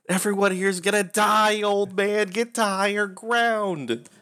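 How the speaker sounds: grab him and warn him; urgent warning. Acted. Grabs man by lapels.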